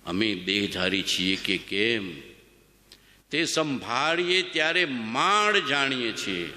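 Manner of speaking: slow reverent recitation of scripture; reverent scripture reading. Shown as a demonstration. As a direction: read the master's words slowly, with awe. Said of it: "શું લખ્યું છે ભગવાને?".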